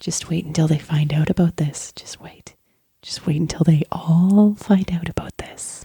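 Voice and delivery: whispered gloating through snickers. After a failed saving throw, the character laughs at his situation; laughing whisper. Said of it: "laughter at his situation in a whisper form".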